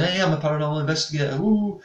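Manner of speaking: hammed-up show-off announcement; mock boasting. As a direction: rattle it off, then whoop in mock excitement. Mimics boasting they would never do.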